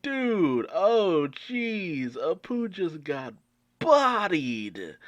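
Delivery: loud, high hype reaction; stunned fan calling out the takedown, excited; excited disbelief. Real, not acted. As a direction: yell it like a fan watching the hit. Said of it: "I'm like, I'm like".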